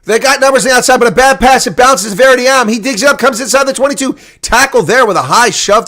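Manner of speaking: play-by-play as they near the line; excited call. Real, not acted. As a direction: keep the tension up on the attack. Last attack inside the 22.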